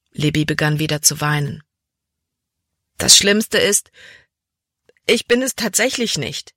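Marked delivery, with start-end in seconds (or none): 3.0-6.5 high-pitched, narrated wail. A narrator's reading. Crying daughter admits she is not brave, wailing. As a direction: lament it in a raised voice. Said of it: "jammerte sie".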